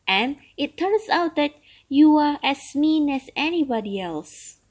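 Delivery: put-on an old turtle longing for freedom; grumbling old turtle. Turtle voiced in story.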